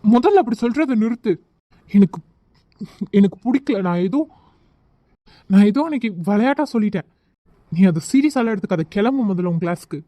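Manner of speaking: irritated scolding with halting starts; cross and impatient dismissal; angry. Acted. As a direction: tell them off, mildly heated. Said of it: "இல்ல கோவத்துல சொல்றீங்களா?".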